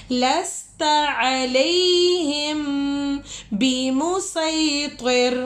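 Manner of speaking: slow melodic tajweed chant; Quran recitation. Acted. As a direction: draw out each verse in measured chant.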